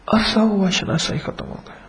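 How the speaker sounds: the refrain again, dropping to a breath; whispered refrain. Acted. Preacher repeats the refrain to the congregation in a whisper. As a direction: let the line fade out to a whisper.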